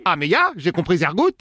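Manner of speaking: lightly put-on German accent; fake German accent. Prank caller insisting he understood, light German accent. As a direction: drop German words into French with a light accent. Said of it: "l'accent pourri".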